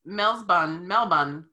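"Melbourne" repeated as Mel-bun; copied local pronunciation. Shown as a demonstration. American repeating after the Australian, copied local pronunciation. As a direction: practise "Melbourne" ending in a short "bun". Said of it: "it sounds like I'm Australian".

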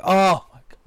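building to a real shout; exasperated yell. Retold or imitated. Fed up with the actor's accent, building to a shout. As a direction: snap and shout at the screen to shut up. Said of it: "I was like".

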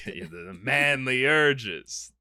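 slow, drawn-out manly voice; half-hearted hammed-up macho; mock manly movie voice. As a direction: drag out the manly urges like a movie hero. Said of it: "they were like".

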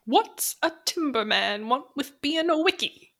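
a hint of a character quizzing someone; lightly acted lighthouse keeper. Quoting the keeper questioning a logger, lightly acted. Voicing Wake's line.

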